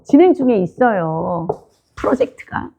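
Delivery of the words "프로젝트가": a breathy whispered aside, no voice. Real, not acted. Preacher whispering an aside to the congregation. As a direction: drop to a whisper for one word.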